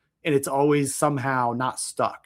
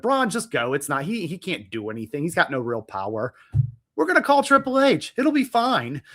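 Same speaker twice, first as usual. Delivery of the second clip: mock reassurance; 3 semitones higher than usual. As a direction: brush him off in a mock cheery tone. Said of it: "I would have".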